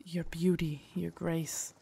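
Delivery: tender confession. Acted. Guard confessing love to lady.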